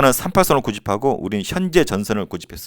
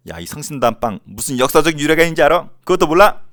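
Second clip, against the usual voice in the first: higher, louder playful taunt building to the last question; mock teasing; 5 semitones higher, 4 dB louder than usual. Teacher demonstrating how to tease a girlfriend over bakery history, mock taunting. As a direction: lightly needle a friend for not knowing. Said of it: "이렇게 놀려주세요".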